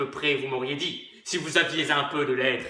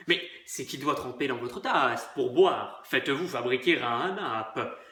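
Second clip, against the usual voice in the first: friendly; 5 semitones lower, 5 dB quieter than usual. Acted.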